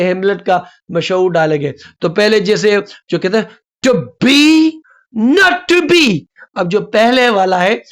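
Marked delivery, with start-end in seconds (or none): 3.9-6.2 "to" small, "be" high and long; unstressed then stressed. Shown as a demonstration. Teacher shows which syllable gets more force, weak then strong. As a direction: punch each "be" high after a weak "to". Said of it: "उस पे जोर कम है".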